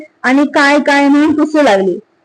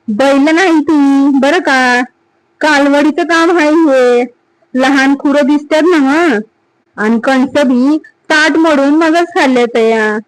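a hint of a shrewd watchman, a little higher; the tracker explaining, somewhat higher and eager; lightly voiced village watchman; 3 semitones higher than usual. Watchman Namja shows Sata the calf tracks, lightly voiced and eager.

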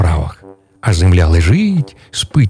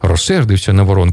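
ordinary delivery

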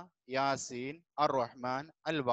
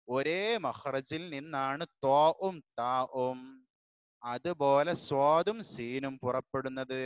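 unhurried read-aloud of the lesson; teacher reading the lesson to the class; slow textbook reading; slower than usual. Shown as a demonstration. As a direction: read the rule slowly and clearly. Reads the lesson text slowly.

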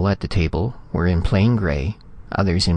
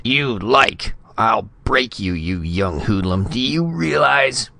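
angry outburst; 4 semitones higher, slower than usual. Acted. Ambassador rages at Retief.

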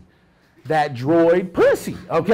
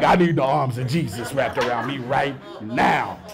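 low mock prayer; 5 semitones lower, slower than usual. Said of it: "you like".

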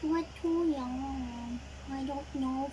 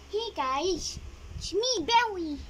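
hyper, raised voice; excited; 4 semitones higher than usual. Acted. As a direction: bounce in all keyed up. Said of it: "can you please calm down".

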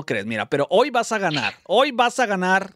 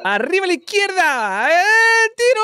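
high shout soaring to a peak; excited shot call; 13 semitones higher, 5 dB louder than usual. Real, not acted. Calls out the penalty shot.

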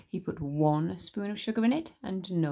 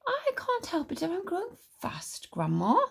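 put-on higher boyish plea; protesting boy; 12 semitones higher than usual. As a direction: plead your case to grandma. George protests.

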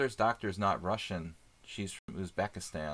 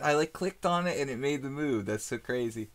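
excited disbelief; 5 semitones higher, 3 dB louder than usual. Real, not acted. Amazed at the move being made.

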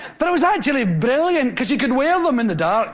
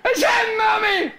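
put-on whiny child's call, higher and laughing; child tattling; 6 semitones higher than usual. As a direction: tell on your brother to mummy. Child calling tattling to mother.

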